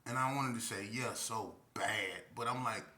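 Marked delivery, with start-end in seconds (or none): 0.9-2.2 drawn-out slow yes; slow longing agreement. Retold or imitated. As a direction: savor the words slowly. Wanting to agree.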